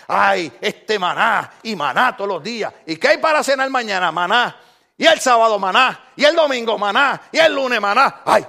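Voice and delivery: whiny, fed-up griping about the same food; mock whiny complaint. Israelites griping in the desert, mock whiny. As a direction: moan it like a bored complainer.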